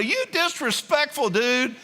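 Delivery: high, loud mock outrage at a rude driver; mock road rage. Pastor scolding a driver who went out of turn, in high, loud mock anger. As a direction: chew out the driver who cut the line, hammed up. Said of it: "You wanna get out of your car and say".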